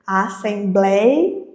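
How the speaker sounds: "Assembleia" spoken slowly, syllable by syllable; slow syllable demo. Shown as a demonstration. Teacher to students, splitting the word into syllables, slowly. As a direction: draw out "Assembleia" to show its syllables. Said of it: "a gente separa assim silabicamente".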